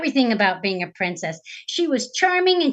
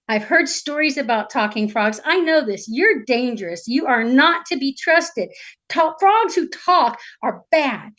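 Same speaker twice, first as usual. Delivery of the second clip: tag wary princess; 2 semitones higher than usual. Acted. Storyteller voices the wary princess.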